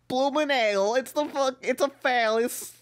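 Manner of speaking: retry of a bad British accent, sliding into Italian; failed British accent. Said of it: "You're, like, dipping into Italian now".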